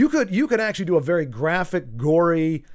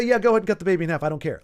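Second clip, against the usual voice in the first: spiteful mother; much faster than usual. Retold or imitated. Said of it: "that she would say".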